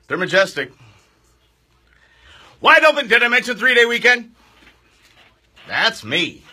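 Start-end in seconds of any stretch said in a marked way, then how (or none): 2.6-4.3 loud, high and excited; hyped up. Real, not acted. Radio host hyping a three-day weekend to listeners, excited. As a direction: sell the long weekend with big energy.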